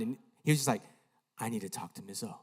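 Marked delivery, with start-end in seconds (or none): 1.4-2.3 low, hushed, stunned delivery. Retold or imitated. Boy alone in his room afterwards, stunned. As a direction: say it quietly, as if still in shock. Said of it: "like, sitting there stunned".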